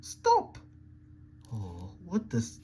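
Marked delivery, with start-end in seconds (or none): 0.0-0.6 sharp high yell; shouted stop. Acted. Santa halting the others, a high yell. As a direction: cut them off with a cry. Calling a halt.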